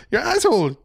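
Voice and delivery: high mock French accent, stretching the words; hammed-up French accent. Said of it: "talking in a French accent".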